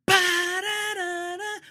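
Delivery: high, slow brassy "ba-da-da-da"; mock brass blast; sung brass fanfare. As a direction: belt it like a horn section.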